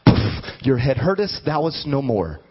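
lightly voiced old-style Jesus, playful and laughing; a hammed-up thee-and-thou decree, half laughing; mock King James Jesus. Preacher joking to the church as Jesus in old English. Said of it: "He'd be like".

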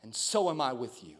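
soft, low and tender; gentle divine voice. Retold or imitated. The Holy Spirit reassuring a father, soft and low. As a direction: say it low, as a hushed revelation.

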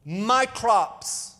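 "my crops" leaned on and held; stress on my crops. Shown as a demonstration. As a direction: underline "my crops" with the voice. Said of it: "I emphasize these two words".

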